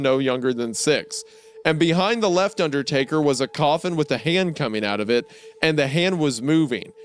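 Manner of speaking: a lightly dramatic read-aloud of a creepy tale; story narration. Acted. Reading a creepypasta to a podcast cohost, mock-serious narration.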